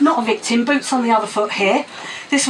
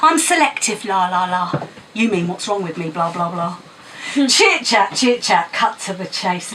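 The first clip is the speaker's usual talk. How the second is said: rhythmic, punchy poem recital; spoken word poem. Acted. Poet performing Moon on a Stick at open mic, rhythmic recital. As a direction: perform it to the crowd with attitude.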